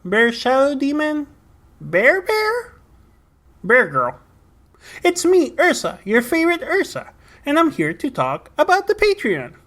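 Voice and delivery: a hint of a goofy bear character; bear Ursa voice. Bear mascot Ursa greeting podcast listeners, lightly put-on voice. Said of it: "bears have a weird accent".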